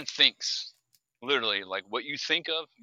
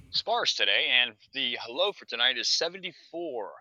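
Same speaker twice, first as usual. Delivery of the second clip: weather report. Pretend. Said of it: "classic weather report".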